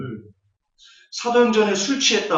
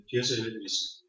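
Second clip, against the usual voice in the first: 뒤에서 예배 드리세요 said much softer, dropping away; soft repeat; 10 semitones lower, 15 dB quieter than usual. Shown as a demonstration. Preacher repeats advice to the congregation, much softer. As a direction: repeat it as a hushed aside.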